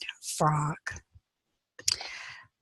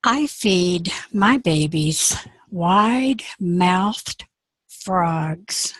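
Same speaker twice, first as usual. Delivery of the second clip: slow menacing alligator; much slower than usual. Acted. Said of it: "And Missus Alligator said".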